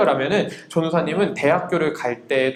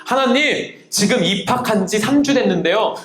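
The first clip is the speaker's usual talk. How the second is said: raised pitch, insistent ultimatum; bold, brazen prayer; 3 semitones higher than usual. Retold or imitated. New student threatening God with dropping out, bold demand. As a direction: pray cheekily, as if giving God a deadline. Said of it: "되게 당돌하게 기도해서 하나님 뭐라".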